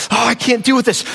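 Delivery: put-on high, whiny child fed up; a touch of a whining kid; ashamed child. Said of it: "they're like".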